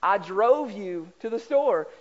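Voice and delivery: slow, careful "drove"; our way. Retold or imitated. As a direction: spell out the home phrasing slowly. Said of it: "We would say".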